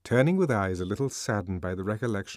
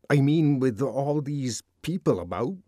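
awkward, choked-up protest; choked with confusion; 5 semitones higher than usual. Acted. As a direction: blurt it out, embarrassed and tense. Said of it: "he was choked with confusion".

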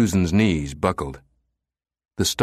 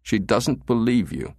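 composed, higher-pitched rebuttal; controlled, unheated reply; even; 4 semitones higher than usual. A narrator's reading. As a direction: state it steadily to unsettle him. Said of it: "the commander said evenly".

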